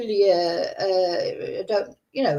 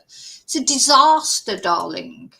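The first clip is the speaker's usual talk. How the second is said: louder, theatrical diva flourish on disaster; mock dramatic; 5 dB louder, slower than usual. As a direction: ham it up like a grand dame. Camp dramatic repeat.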